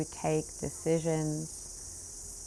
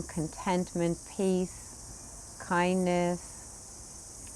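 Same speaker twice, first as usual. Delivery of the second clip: hushed savoring; 6 dB quieter, much slower than usual. Acted. Savoring inner qualities softly.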